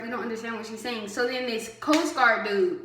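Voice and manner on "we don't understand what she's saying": softer, fast muttered complaint; under their breath. Retold or imitated. Recruits complaining about the officer, muttered under breath. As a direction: grumble it quickly under your breath. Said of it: "under their breath".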